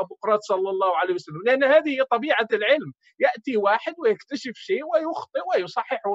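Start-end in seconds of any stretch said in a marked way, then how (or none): 0.0-1.4 mock reverent quote. Debater mocking followers, rattling off a pious formula. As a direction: rattle off the blessing in mockery. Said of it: "وينبغي أن تقولوا".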